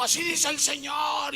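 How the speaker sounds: high-pitched proclamation, imitated; mock prophetess. Woman interrupting the preaching to prophesy, mock proclamation. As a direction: imitate someone breaking into prophecy mid-sermon. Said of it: "y profetizó".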